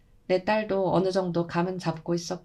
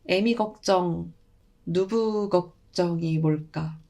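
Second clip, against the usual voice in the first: slow, musing grandmother; slower than usual. Acted. Grandmother ponders the child's worries.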